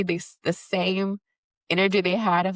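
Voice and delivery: normal talking voice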